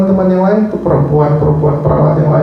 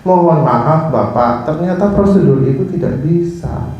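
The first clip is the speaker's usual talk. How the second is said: acted polite apology; 2 semitones lower than usual. Doctor explaining procedure to a patient, politely apologetic. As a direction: apologize gently and deliberately. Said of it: "bisa tinggal bilang sama pasiennya".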